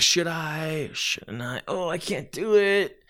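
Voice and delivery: mock-timid whisper wavering over the towel; hesitant second. Second dithering whether to throw the towel, mock-timid. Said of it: "it's like".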